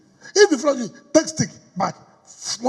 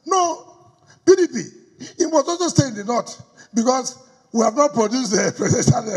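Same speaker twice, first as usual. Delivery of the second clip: mocking opponents; 5 semitones higher, 3 dB louder than usual. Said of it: "Then you say".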